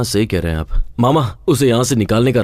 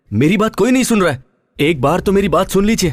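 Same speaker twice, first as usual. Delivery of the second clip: exasperated plea; 5 semitones higher than usual. Acted. Begs family to hear him.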